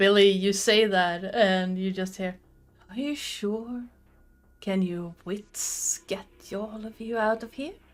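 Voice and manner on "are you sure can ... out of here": eerie, otherworldly, soft, creepy fey voice. In a role-play scene, a voice questions two characters, creepy fey voice. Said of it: "Ignore the creepy Faye voice".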